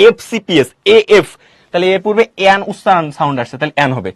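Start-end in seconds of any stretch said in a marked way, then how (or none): 0.1-1.3 "এফসিপিএস" said letter by letter, opening on "এএফ"; sounding out letters. Shown as a demonstration. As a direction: sound out "এফসিপিএস" to show its first vowel. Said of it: "এটা উচ্চারণ করবো".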